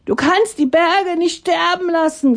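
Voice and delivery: high pleading voice of the crowd; people calling out. Acted. People calling up to Atanga, high and pleading. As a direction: plead up to the god. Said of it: "riefen die Menschen".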